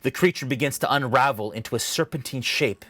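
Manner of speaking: measured, dramatic scene-setting with deliberate pauses; game master narration. Acted. Game master describing a dream to a player, dramatic narration. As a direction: paint the vision phrase by phrase.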